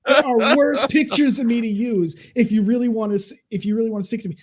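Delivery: loud mocking retort; retold angry reply. Telling trolls off in a loud, scornful voice. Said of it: "My response was".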